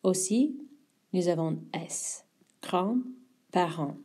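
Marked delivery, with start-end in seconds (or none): 2.6-4.0 grands-parents very slowly, no final S; slow silent S. Shown as a demonstration. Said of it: "We don't get to say the S".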